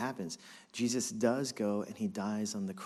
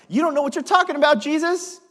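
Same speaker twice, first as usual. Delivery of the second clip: fast, much higher, loud Brooklyn scoff; Brooklyn swagger; 11 dB louder than usual. Acted. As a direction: brush Jesus off like a cocky Brooklyn kid. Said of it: "Brooklyn swagger".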